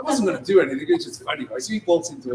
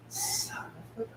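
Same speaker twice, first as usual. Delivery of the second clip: laughing outrage; 11 semitones higher, 6 dB louder than usual. Retold or imitated. Dealer laughing in outrage at the thief. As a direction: squeal it through laughter.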